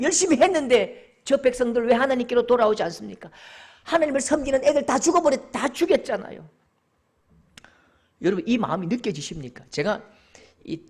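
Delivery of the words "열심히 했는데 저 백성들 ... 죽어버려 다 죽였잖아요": raised, pressing lament; impassioned complaint, voice pushed up; anguished protest to God. Acted. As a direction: pour out the grievance to God. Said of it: "하나님 가슴을 치는 거예요".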